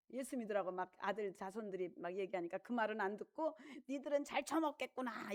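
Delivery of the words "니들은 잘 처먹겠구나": mock bitter. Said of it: "이렇게 죽으면 안 돼".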